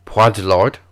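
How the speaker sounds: put-on amateur French accent; French words in a lightly tried accent; best French accent. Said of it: "let me do my best French accent".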